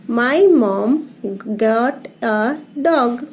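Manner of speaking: slow reading, word by word; paragraph reading. Shown as a demonstration. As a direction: read each word separately for young learners. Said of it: "ये paragraph read करेंगे". (एक-एक शब्द धीरे पढ़ना)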